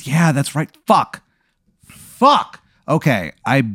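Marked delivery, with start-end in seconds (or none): 0.9-2.6 panicked curse. Real, not acted. Player panics, no reception.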